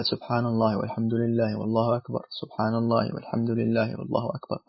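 a soft, murmured recitation of the combined dhikr; softly reciting dhikr. Shown as a demonstration. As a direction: murmur it quietly like a private remembrance. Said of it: "يعني، هل يقول هكذا".

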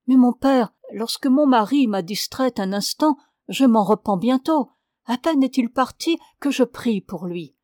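lightly voiced wife confessing to her priest; pious young wife. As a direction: plead her case sweetly to the priest. Penitent wife speaks to priest.

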